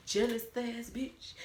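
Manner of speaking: slow, soft put-on taunt with rising end; mocking repeat. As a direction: lift the taunt softly at the end. Same insult repeated, voice changed.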